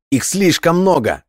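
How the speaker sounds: high, drawn-out desperate cry; breaking into a shout. A narrator's reading. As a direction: cry out the warning, pitch way up. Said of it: "Ханс сорвался на крик".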